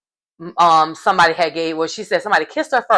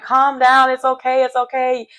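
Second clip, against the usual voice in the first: higher-pitched mock soothing; hasty soothing; 6 semitones higher than usual. Recapper voicing Ross calming a crying Paul, high hasty soothing. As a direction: lightly imitate someone calming a friend down. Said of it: "So Ross is telling him".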